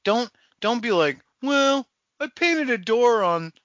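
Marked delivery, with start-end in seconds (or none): 1.4-3.5 slow, higher mock-cartoon voice; cartoon character. Cartoon character explaining a painted door, slow put-on voice. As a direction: draw it out like a cartoon schemer. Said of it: "get Looney Tunes".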